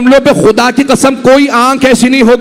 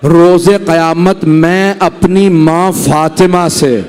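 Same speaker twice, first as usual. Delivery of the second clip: Zainab's voice; 3 semitones lower, slower than usual. Acted. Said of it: "अंदर से आवाज आई जनाब जैनब की".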